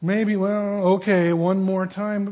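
slow, hesitant, grudging forgiveness; reluctant God. Retold or imitated. God to a repeat sinner, slow grudging reluctance. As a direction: drag it out like a reluctant parent. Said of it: "God would go".

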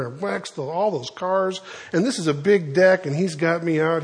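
acted griping, building in pitch and volume; mildly worked-up mock complaint; grumbling kid. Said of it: "the kid was grumbling".

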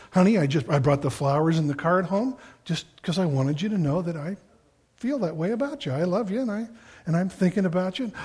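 soft, tender words to a wife; tender husband. Retold or imitated. Husband bringing flowers home to his wife, tender and soft. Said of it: "It's just".

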